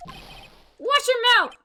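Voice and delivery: angry snap. Acted. Defending the girl, snapping back.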